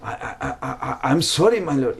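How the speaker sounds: stammering apology, lightly acted; mock overwhelmed stutter. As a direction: trip over the first word as if overwhelmed. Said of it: "he was like, overwhelmed".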